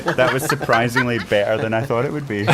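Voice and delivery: laughing. Retold or imitated. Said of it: "Longmeadow was like".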